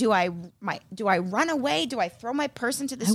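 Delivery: ordinary delivery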